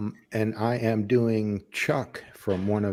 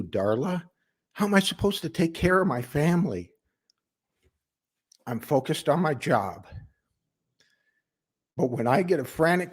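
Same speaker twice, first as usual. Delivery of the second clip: defensive plea from a worker, lightly acted; earnest family man explaining himself; 4 semitones higher than usual. Worker explains to Darla why he left work, earnest and defensive. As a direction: justify yourself to the boss, with pauses between thoughts. Audition monologue, pleading to boss Darla.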